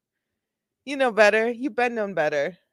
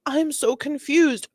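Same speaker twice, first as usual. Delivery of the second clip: higher-pitched, play-acted bewilderment; mock drunk confusion; 7 semitones higher than usual. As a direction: act out a tipsy, confused woman. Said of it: "she's gonna cycle between".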